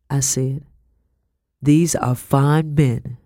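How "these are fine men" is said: with pride. Acted. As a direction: let the pride in his men show. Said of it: "the sergeant said with pride".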